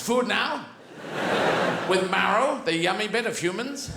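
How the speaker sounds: lightly voiced eager dog, questioning lilt; hopeful hound angling for a meal; food-obsessed dog. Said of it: "The dog goes".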